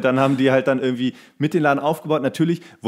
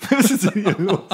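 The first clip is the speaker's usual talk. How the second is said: much higher pitch, laughing through the words; 13 semitones higher than usual. Real, not acted. Podcaster cracking up at his co-host's joke, laughing through the words. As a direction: burst out laughing as you ask.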